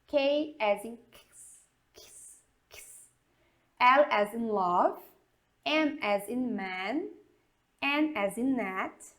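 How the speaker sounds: "H as in hotel" said slowly and clearly; slow teacher spelling, one letter at a time; English spelling drill. Shown as a demonstration. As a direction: classroom alphabet drill. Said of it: "vamos dar uma soletrada aqui".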